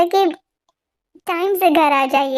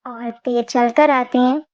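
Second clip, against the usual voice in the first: story narration; 4 semitones lower than usual. A narrator's reading. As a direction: ease back into telling the story. (धीमी आवाज़ में कहानी सुनाना)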